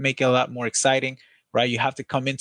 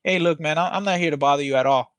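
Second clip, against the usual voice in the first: getting low. Shown as a demonstration. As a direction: bring it down to deflect the tension. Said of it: "I can kinda get low on it".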